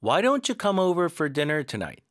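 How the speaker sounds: slow, linked, stress on "don't". Shown as a demonstration. Teacher repeating the sentence for students. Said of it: "한 번 더".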